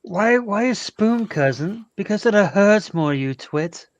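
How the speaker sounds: slow, drawn-out villain line; movie villain quote. Retold or imitated. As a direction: sneer it slowly like a movie villain. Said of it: "Do you remember this video".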